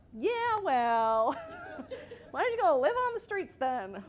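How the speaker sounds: loud, high, hammed-up retort; mock heated comeback. Amped-up mom sparring with child, mock heated comeback. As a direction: fire back loudly, drawing out the opening.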